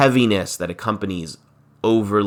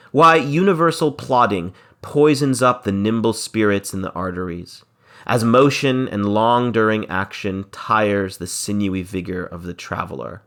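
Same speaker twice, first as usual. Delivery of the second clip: verse reading. Acted. Teacher reading Shakespeare's lines to the class, lightly dramatic. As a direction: read the verse line with a touch of drama.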